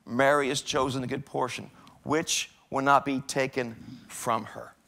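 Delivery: calm her down slowly; gentle rebuke. Acted. Jesus answers anxious Martha, slow tender rebuke.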